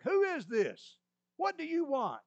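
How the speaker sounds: Abner yells back high across the camp; a sharp, high shouted challenge; hollering back. Acted. Abner shouting back at the unseen David, hollering. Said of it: "he hollers back".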